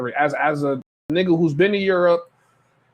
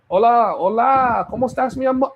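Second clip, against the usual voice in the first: fake Latino local; 7 semitones higher than usual. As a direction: put on a hammed-up Latin charmer accent, slowed right down. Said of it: "act like a local".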